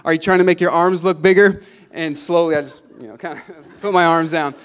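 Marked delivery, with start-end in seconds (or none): 0.0-1.6 loud taunt called from the stands; imitated heckler's yell. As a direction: call out a jeer at a player. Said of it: "someone yelled".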